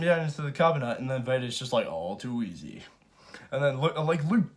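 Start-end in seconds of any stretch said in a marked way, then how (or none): 1.9-2.8 Vader dismissive. Retold or imitated. Vader quoted mocking Luke.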